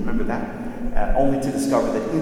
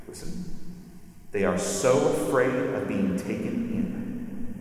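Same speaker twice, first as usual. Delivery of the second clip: sorrowful Aslan; 3 semitones lower, 6 dB quieter than usual. A narrator's reading. Aslan sadly explaining the dwarves to the children, soft grave sorrow. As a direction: speak with sad, gentle authority.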